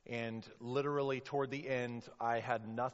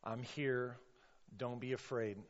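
calm reassurance; 4 dB quieter than usual. Acted. Preacher as Jesus to struggling families, calm reassurance. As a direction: reassure gently, letting each phrase settle. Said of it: "Jesus is speaking".

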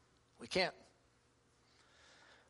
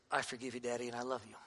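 put-on tearful child's forgiveness; 7 semitones lower, 9 dB quieter, faster than usual. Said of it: "he has big old crocodile tears".

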